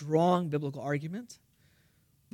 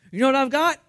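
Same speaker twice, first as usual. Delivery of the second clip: louder, higher confident question; bold challenge; 7 semitones higher, 7 dB louder, faster than usual. Acted. Missionary challenges the doubting townsman, loud and bold. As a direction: throw it out like a dare.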